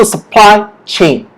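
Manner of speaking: "supply chain" with a strong PLY, then falling; stress on PLY. Shown as a demonstration. Teacher restating the rule, stress on PLY in supply chain. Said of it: "the stress is on ply".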